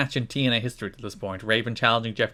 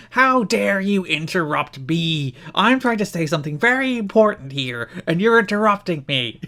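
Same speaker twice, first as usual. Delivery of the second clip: indignant Raven; 6 semitones higher, 3 dB louder than usual. Retold or imitated. Raven answering a heckler, hammed-up indignant. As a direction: scold the crowd like a wounded wrestler. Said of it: "It's like".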